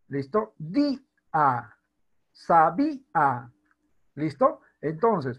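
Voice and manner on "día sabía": Día and Sabía split as dí... a, sabí... a; hiatus, accented í. Shown as a demonstration. Teacher showing students the hiatus, vowels split. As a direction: stress í in Día and Sabía, detach the a. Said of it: "Para que podamos disolver el diptongo".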